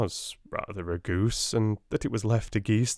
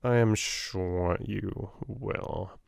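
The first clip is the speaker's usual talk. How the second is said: sinister smile; much slower than usual. Acted. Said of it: "with a little sinister smile".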